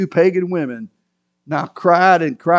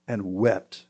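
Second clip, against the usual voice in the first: normal talking voice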